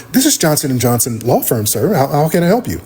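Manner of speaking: polished office phone manner; a hint of a prim receptionist; lightly voiced professional receptionist. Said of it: "a completely different person at work".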